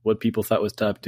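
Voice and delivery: a hint of a corporate voice; lightly voiced office presenter; corporate training video. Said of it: "this voice you're doing is hilarious".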